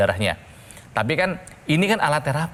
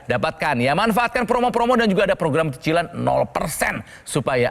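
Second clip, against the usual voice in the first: upbeat hard-sell ad read; infomercial. Acted. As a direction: pitch it like a TV shopping host. Host switches into product pitch.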